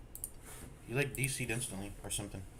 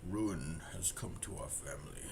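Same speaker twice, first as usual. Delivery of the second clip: game narrator; 5 semitones lower, 7 dB quieter than usual. Acted.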